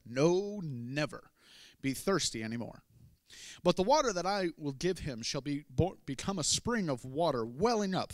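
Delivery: loud, fervent preaching voice; proclaiming. Acted. Jesus promising living water, loud and fervent. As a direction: proclaim it with full conviction.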